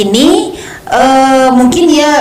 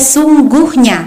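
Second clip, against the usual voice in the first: teacher's stressed "sesungguhnya"; stressed word example; slower than usual. Shown as a demonstration. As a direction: demonstrate SESUNGGUHNYA with its syllables stressed.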